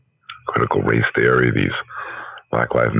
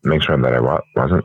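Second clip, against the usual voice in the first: talking while chewing chips; words round a mouthful of chips; mouth full. Real, not acted. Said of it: "I'm eating chips and talking to you too".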